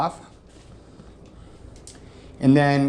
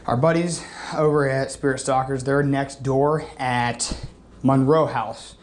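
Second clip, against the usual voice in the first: talking around a mint; words through a Tic Tac; mouth full. Real, not acted. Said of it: "sorry, I have a Tic Tac in my mouth".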